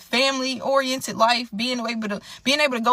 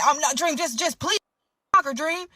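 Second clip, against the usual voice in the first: mock pleading; 4 semitones higher than usual. Boyfriend begging her again.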